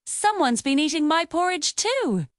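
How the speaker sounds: a hint of a gentle mama bear; gentle medium voice. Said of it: "In her gentle, medium-sized voice".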